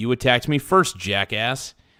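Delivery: ordinary delivery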